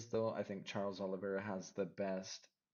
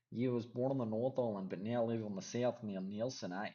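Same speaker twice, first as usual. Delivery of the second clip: a bad, put-on New Zealand accent, a little louder; terrible Kiwi accent; 2 semitones higher, 4 dB louder than usual. Telling viewers where he was born, in a mock Kiwi accent. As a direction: ham up the Kiwi vowels and tag on an eh. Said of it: "That was a terrible Kiwi accent".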